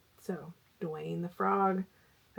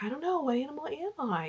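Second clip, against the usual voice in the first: higher, lightly voiced young niece asking; imitating niece; 8 semitones higher than usual. Mother retelling her niece asking which animal she is, in a higher, lightly voiced girl's tone. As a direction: play the puzzled little niece, pitched up. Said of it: "And she's like".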